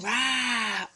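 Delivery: comic-strip "uá" roar; drawn-out "uá" meant to startle; loud scary roar. Shown as a demonstration. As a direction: show how a frightening shout sounds. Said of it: "Olha como a Pro falou, é alto, é assustador".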